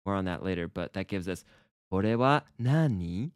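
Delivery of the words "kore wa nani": slow "Kore wa nani", lifting on "nani"; rising intonation. Shown as a demonstration. Teacher modelling casual question, "nani" rising. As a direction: say "Kore wa nani" slowly, ending upward as a question. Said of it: "it's more so a rising intonation".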